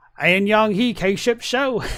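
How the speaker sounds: put-on heavy American Southern accent, laid on thick. Retelling how he ends a skit, in a thick southern accent. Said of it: "one of the uh, thickest Southern accents that I've ever heard".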